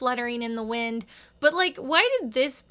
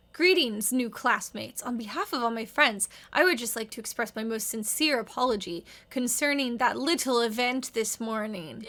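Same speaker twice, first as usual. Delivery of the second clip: put-on Dexter accent. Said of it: "doing it in the accent".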